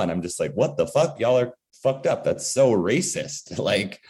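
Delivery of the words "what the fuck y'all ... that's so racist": higher-pitched incredulous protest; indignant but not shouted; retold indignation. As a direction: call them out in disbelief, pitched up. Own reaction to relatives, retold.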